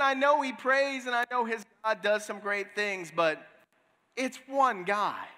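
a king brushing off one prophet with a sneer; boastful king. Retold or imitated. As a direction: sneer that it's only one man. King boasts he'll capture one man.

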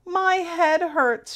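mock-pitiful moan. A narrator's reading. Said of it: "she moaned".

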